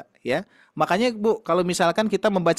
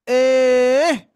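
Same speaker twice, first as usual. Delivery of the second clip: sharp, higher, louder "Eh."; scolding a child; 5 semitones higher, 5 dB louder than usual. Retold or imitated. Mother scolding her child with a sharp "Eh.". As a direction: snap "Eh." at a child to stop them. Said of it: "ketika saya menegur anak saya".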